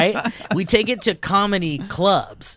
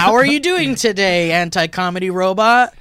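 interviewer voice; 5 dB louder than usual. Acted. Interviewer asking robot.

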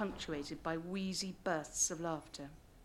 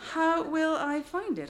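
nervous question; 9 semitones higher, 6 dB louder, slower than usual. Retold or imitated. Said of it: "I asked".

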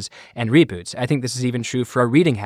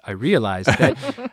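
slow, light take on a TV executive; Skipper voice; slower than usual. Retold or imitated. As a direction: slowly voice the boss realizing it. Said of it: "I'll do Skipper voice".

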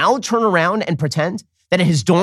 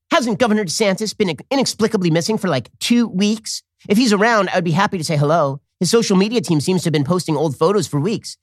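mocking AOC tweet; 2 semitones higher than usual. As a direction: voice her tweet with a hint of sarcasm. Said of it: "She tweeted".

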